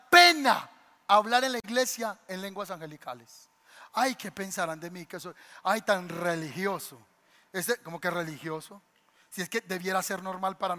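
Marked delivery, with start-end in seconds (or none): 3.9-7.0 lightly mocking an embarrassed believer; mock timid churchgoer. Imita al creyente avergonzado. (burla suave de un creyente tímido)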